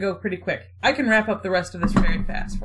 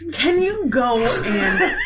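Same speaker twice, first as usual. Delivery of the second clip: laughing mid-line; 3 dB louder, slower than usual. Acted. Retelling Cleopatra while laughing.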